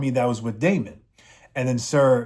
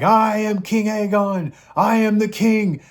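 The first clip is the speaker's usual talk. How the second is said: high, louder put-on royal voice; mock proud king; 9 semitones higher, 4 dB louder than usual. Aegon refusing to flee before the army, high mock royal boast. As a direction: puff up as a pompous boy-king.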